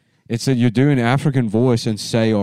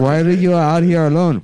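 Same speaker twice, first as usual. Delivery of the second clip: high, loud street voice; Cholo voice; 6 semitones higher, 4 dB louder than usual. Acted. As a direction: call out from the car. Acting video characters.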